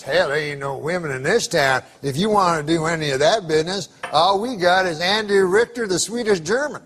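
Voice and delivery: gruff small-town barkeep; Southern bartender. Retold or imitated. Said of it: "the bartender says".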